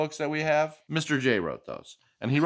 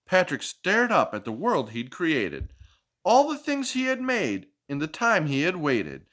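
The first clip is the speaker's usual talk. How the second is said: lively picture-book read-aloud; reading to a child; 2 semitones higher than usual. Acted. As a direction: read it like a bedtime story for a little one.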